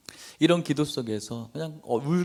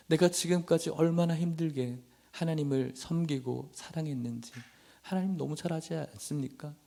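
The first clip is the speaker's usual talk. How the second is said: acted aggrieved prayer to God; understated tearful plea, no sobbing; pleading, near tears; 3 semitones higher than usual. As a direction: question God in mild anguish. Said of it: "라고 막 울기 시작하는데".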